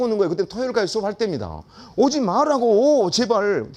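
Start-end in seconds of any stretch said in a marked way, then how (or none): 2.0-3.7 higher, louder, slow pleading; slow louder mock plea to stop coming; begging plea. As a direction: drag it out like a begging teacher. Begging the boys not to come.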